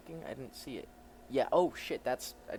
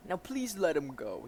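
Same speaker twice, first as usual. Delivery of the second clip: polite character voice pitched up; raised-pitch version of the hero; higher pitch; 5 semitones higher, 3 dB louder than usual. Acted. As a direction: lift the voice and plead politely. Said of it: "same voice but higher pitch".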